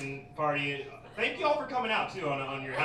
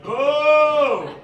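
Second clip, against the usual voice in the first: loud, high, slow jeering; hateful crowd; 6 semitones higher, 8 dB louder, much slower than usual. Retold or imitated. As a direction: imitate an outraged audience chanting its heckles. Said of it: "Then they really hated me".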